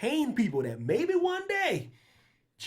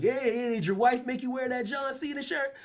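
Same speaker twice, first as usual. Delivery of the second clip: put-on heckler's call, pitched up; mock yell across a bar; 8 semitones higher than usual. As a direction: imitate a guy calling across the bar. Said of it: "this guy yelled across the bar".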